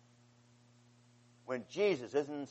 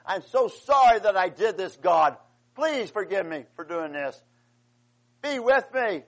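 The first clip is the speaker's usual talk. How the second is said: higher and louder, a sorrowful plea to God; remorseful cry for forgiveness, raised high; pleading prayer; 4 semitones higher, 6 dB louder than usual. Retold or imitated. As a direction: cry out to God in repentance, pitched up and loud. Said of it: "He says".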